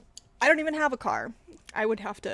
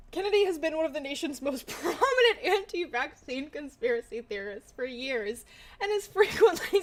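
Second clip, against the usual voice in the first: laughing while reading; 2 semitones higher than usual. Real, not acted. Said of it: "I'm laughing 'cause I'm scared".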